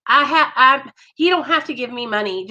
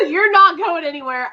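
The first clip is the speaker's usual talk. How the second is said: laughing; 5 semitones higher than usual. Real, not acted. Laughing reply to guest.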